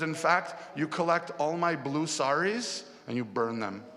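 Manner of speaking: high, loud, petulant orders; frustrated. Acted. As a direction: dictate the ban in an acted huff. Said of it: "such a frustrated mood".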